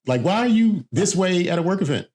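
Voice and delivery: high squeaky exasperated voice; high-pitched mock voice. Acting body's voice at work event.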